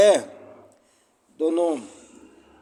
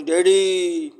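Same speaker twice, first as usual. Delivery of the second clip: a bright call up the stairs, louder; calling out Daddy; 3 semitones higher, 6 dB louder, much slower than usual. Retold or imitated. Daughter happily calling her father from below the house, louder call.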